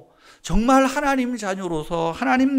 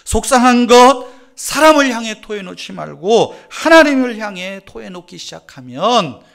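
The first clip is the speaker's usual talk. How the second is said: fervent, loud exhortation; loud preaching; 2 semitones higher, 10 dB louder than usual. Acted. Preacher loudly exhorting the congregation to pray. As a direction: drive it home with force.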